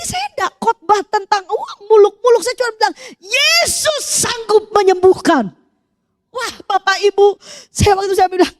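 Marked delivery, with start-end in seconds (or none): 3.2-5.5 slow, crying declaration; weeping proclamation; tearful. Retold or imitated. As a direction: choke it out with tears.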